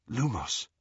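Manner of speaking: softly uttered incantation; whispered spell. A narrator's reading. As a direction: say the spell under your breath. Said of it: "he whispered".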